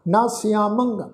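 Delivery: ਸਿਆਮੰਗ with a nasalised m syllable; nasal ending. Shown as a demonstration. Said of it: "ਮੰਮੇ ਦੇ ਉੱਤੇ ਟਿੱਪੀ".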